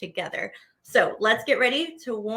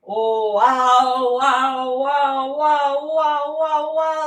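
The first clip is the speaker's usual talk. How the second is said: loud amazed wows; excited wows; 5 dB louder, much slower than usual. Shown as a demonstration. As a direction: mouth open wide, marvel with wow. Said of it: "Open real big".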